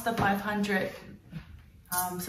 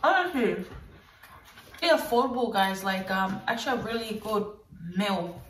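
influencer voice. Acted. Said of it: "when I talk like that".

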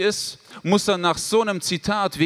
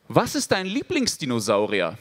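put-on shy boy voice; 10 semitones lower than usual. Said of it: "sag ich genau das Gleiche wie damals".

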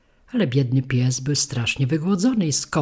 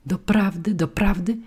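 higher, delighted double cry; joyful exclamation; 6 semitones higher than usual. A narrator's reading. Puppet hearing the boy lives, joyful cry. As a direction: leap up with joy at the news. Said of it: "zawołał pajac, skacząc z radości".

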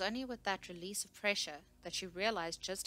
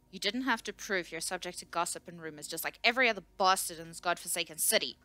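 loud, angry accusation; shouting; 7 dB louder than usual. A narrator's reading. Scout berates the researcher across the table, shouting. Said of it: "the scout shouted at her".

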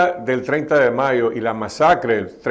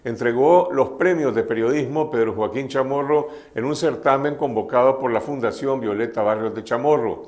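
steady, scripted news-anchor delivery; news read. Acted. Host introduces journalism prize winners to viewers, news read.

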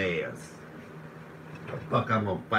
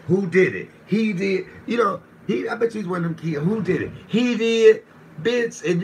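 high loud squeaky mock voice; mock accuser; 9 semitones higher, 6 dB louder than usual. Mocking the tattletale in a high put-on voice. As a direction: play the tattling kid, shrill and loud.

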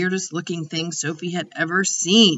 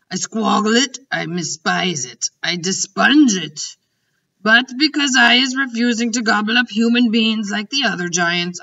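BFG; 3 semitones higher, 4 dB louder than usual. Acted. The giant ranting to Sophie about snozcumbers, loud and disgusted. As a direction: spit out his loathing of the vegetable.

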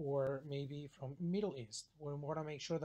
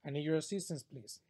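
polite request. Shown as a demonstration. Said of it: "it sounds way better".

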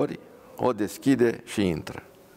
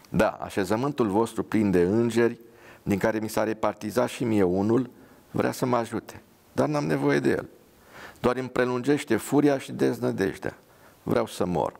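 ironic; 4 semitones higher than usual. Acted. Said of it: "Soldatul ironic".

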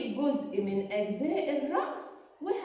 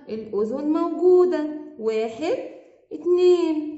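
excited teacher; 7 dB louder than usual. Acted. Lively kids' guessing game.

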